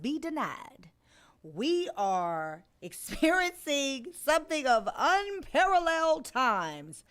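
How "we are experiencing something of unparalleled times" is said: slow, grand announcer voice; hammed-up serious newscaster opening; mock news anchor. Mock dramatic news opener.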